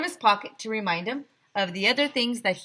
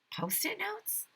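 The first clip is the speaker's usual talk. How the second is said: aghast whisper; 13 semitones higher, 12 dB quieter than usual. A narrator's reading. Narrator's horrified echo.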